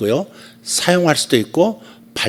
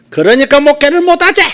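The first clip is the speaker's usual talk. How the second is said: very high, sharp, shrill Gyeongsang dialect woman's voice; 13 semitones higher, 8 dB louder than usual. Retelling what god said in a middle-aged woman's voice, sharp gyeongsang dialect. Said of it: "날카로운 경상도 사투리, 여자 경상도 사투리 쓰시는 아줌마의 목소리로".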